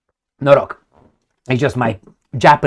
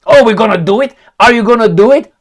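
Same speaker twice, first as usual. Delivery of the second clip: mock whiny West; 7 semitones higher, 6 dB louder, faster than usual. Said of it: "You're gonna say".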